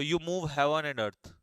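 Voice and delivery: the idiom again, very slowly; teacher slowly restating the idiom; slow recap. Shown as a demonstration. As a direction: lean on each word, unhurried. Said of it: "आप हर जगह उसके लिए प्रयास करते हो".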